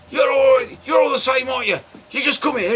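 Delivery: hammed-up affronted dealer; mock angry snap. Salesman lashes out at customers, mock anger.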